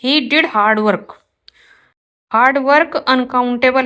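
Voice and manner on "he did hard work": slow, careful read of the corrected sentence; slow teacher dictation. Shown as a demonstration. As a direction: lay out each word clearly for the class. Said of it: "right होगा ये".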